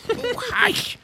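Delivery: high, urgent stage whisper; frightened whisper. A narrator's reading. Rabbit hushes laughing Alice, whispering in fright. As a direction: shush in alarm. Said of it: "whispered in a frightened tone".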